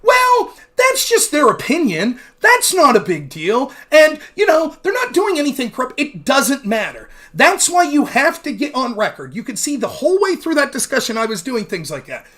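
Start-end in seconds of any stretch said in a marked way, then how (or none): 0.0-6.0 mocking impression. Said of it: "he'd go".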